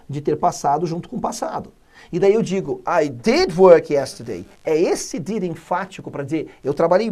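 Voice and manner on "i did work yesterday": slow, did hit hard; emphatic did. Shown as a demonstration. Teacher demonstrating the emphatic did to students, stress on did. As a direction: lean on did to insist you worked. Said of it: "Daí eu quero ser enfático".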